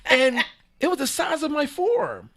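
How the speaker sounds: high, slow, laughing through it; can barely get it out for laughing; breaking up mid-sentence. Real, not acted.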